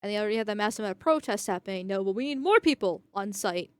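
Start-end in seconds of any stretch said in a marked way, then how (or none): 1.9-3.7 a hint of mock insistence on the quote; sarcastic echo. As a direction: throw his words back with light sarcasm. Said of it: "is saying".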